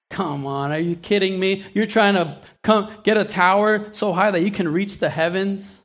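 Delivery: mild scoffing disbelief; lightly mock the tower builders; God laughing at the nations, mildly scoffing. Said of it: "He scoffs at them".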